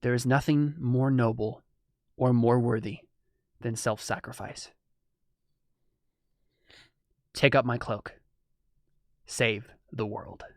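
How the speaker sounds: slow, solemn otherworldly voice; a noble spirit passes on its cloak. Acted. Spirit speaks to the hero.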